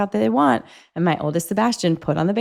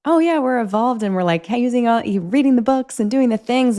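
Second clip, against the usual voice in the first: mock smug; 5 semitones higher than usual. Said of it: "to think".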